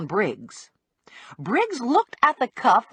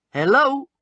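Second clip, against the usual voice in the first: questioning call, pitched up; 4 semitones higher, 3 dB louder than usual. A narrator's reading. Bounty hunter at the silent door, higher questioning call. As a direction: call out to check for an answer. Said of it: "Lula called".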